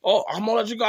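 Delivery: hurried dad cutting the call short; imitating dad brushing off. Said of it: "He's like".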